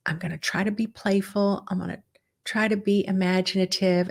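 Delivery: mild, hesitant willingness to try; tentative resolve. Acted. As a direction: say it tentatively, not yet committed. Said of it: "just don't lead with that. It's like".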